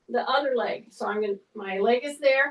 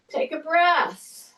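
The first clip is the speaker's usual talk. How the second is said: slow breathing cue; 2 semitones higher, slower than usual. Shown as a demonstration. Trainer guiding a client's breath, slow and drawn out. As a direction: draw the cue out, like pacing their breath.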